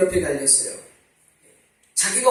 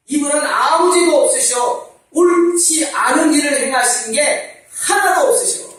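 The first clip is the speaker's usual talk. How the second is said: loud, higher, urgent rebuke; rebuking thief; 5 semitones higher, 4 dB louder than usual. Acted. Thief on the cross rebukes the mocking thief, loud and urgent. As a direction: scold him to his face, slowing at the end.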